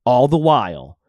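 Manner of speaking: dramatic documentary narrator read. Acted. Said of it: "with my awesome narrator voice".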